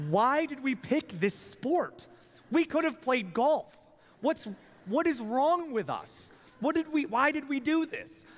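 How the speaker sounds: high, drawn-out voice of self-doubt; inner voice. Acted. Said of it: "you have this other voice that seems to come from within".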